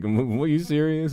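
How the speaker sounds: high, loud, stammering disbelief; imitating Miles. Streamer voicing Miles stunned by the meme, loud disbelief. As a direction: sputter it in shock. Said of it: "and he's like".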